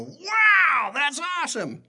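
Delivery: high, loud, hammed-up gasp of wonder; mock amazement. Pastor retelling his reply to his friend, with hammed-up amazement. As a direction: play up being dazzled by the money.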